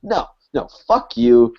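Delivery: mild mock fury at a party guest; snapping rant. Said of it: "And I just fucking snap on her".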